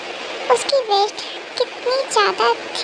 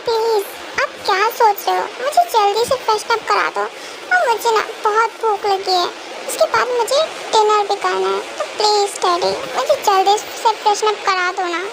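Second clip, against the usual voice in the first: put-on childish girl voice. Cookie insisting to her daddy she never lies, childlike pleading. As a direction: play a small girl protesting sweetly to her daddy.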